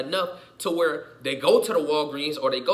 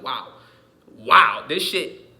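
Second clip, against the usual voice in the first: amazed; 2 semitones lower, 8 dB louder, much slower than usual. Retold or imitated. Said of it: "Every day I watch this shit like".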